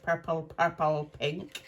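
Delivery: hammy attempt at a Scottish accent; amateur Scottish burr; bad Scottish accent. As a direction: imitate a Scottish accent, badly. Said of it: "the rubbishest Scottish accent I've ever heard".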